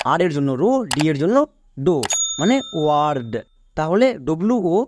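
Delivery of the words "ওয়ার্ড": "ওয়ার্ড" blended from wa, r and d. Shown as a demonstration. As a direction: sound out "ওয়ার্ড" with an opening wa. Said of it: "ডব্লিউ ও এর জন্য ওয়া". ("ওয়ার্ড", ওয়া দিয়ে উচ্চারণ)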